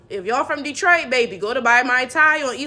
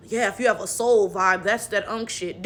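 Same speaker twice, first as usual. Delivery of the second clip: lower, softer imitation of dismissive talk; mocking quote; 5 semitones lower, 4 dB quieter than usual. Creator quoting the dumb take back, mockingly. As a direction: parrot their take in a low put-on voice. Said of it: "you talking about".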